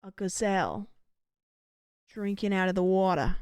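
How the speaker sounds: hushed wildlife narrator, mild attempt; David Attenborough impression. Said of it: "Okay, David Attenborough, if he was British".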